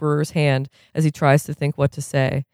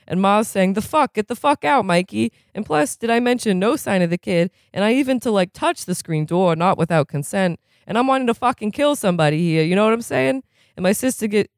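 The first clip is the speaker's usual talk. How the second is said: aggrieved, profane, building to indignation; rough recovering addict; 3 semitones higher than usual. Acted. Mikey telling the AA crowd about his sister, aggrieved rant.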